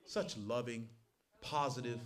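soft, sarcastic praise of how good we are; mock praise. Preacher mocking the congregation's pride, softly sarcastic. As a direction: pretend to admire them, dripping irony.

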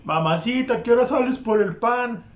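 half-hearted catcall imitation; mock catcall. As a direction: lightly mimic the sleazy shout. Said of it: "Y el güero así".

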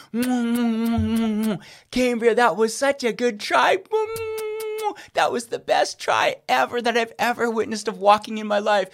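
put-on cooing comfort to a fallen baby, slow; soothing toddler. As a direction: hum and soothe her like a dad.

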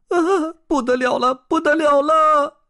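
high-pitched goldfish yelling in alarm; loud, frantic little-fish shout; panicked cry. Acted. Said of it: "鲸鱼咕噜咕噜地吐着泡泡喊道".

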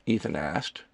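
ordinary delivery

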